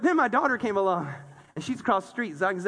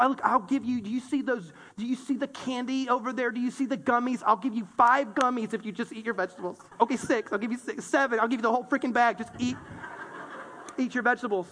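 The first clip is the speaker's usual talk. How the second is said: bargaining dad. Retold or imitated. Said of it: "You're bargaining".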